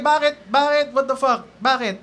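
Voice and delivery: high, loud indignant mom. Retold or imitated. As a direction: snap back defensively. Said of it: "She was like".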